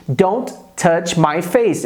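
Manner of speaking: "Don't touch my face." repeated slowly, stress on face; teacher repeats for students, slow and clear. Shown as a demonstration.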